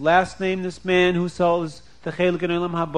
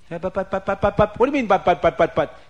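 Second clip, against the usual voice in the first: sputtering protest; 3 semitones higher, 4 dB louder, faster than usual. Acted. Husband stammers, wife mocks it.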